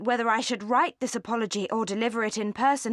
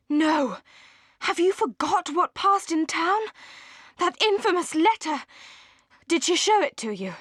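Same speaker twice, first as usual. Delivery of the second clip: agitated outburst; 5 semitones higher than usual. Acted. Willoughby indignant about the letter.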